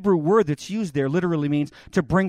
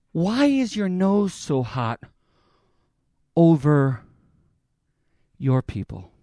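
gentle plea; 4 semitones lower, slower than usual. Acted. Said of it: "That's what he says".

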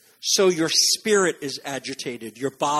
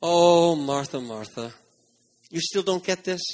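a hint of a let-down teacher; disapproving. Shown as a demonstration. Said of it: "It can sound like disapproval".

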